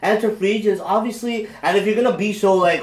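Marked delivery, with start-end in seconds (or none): 0.0-0.8 high, loud, worked-up rebuttal; heated retort. Real, not acted. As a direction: push back hard, pitch up.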